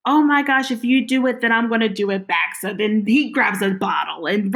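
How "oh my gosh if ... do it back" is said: mock upset. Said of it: "he gets upset".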